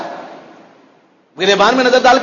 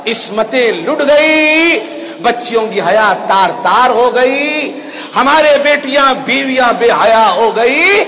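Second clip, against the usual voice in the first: impassioned preaching lament; slower than usual. Real, not acted. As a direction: draw out the wail over ruined honour. Laments ruin at full force.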